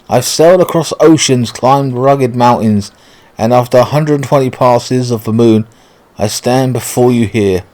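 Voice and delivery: lightly hammed English gentleman; measured, stagey declaration of love; posh suitor. Suitor recounts his journey to his beloved, lightly posh and stagey. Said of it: "nobody talks that way".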